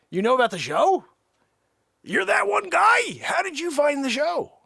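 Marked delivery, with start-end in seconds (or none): 2.0-4.5 surprised shout. Acted. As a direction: blurt it out, caught off guard. Caller turns out to be a fan.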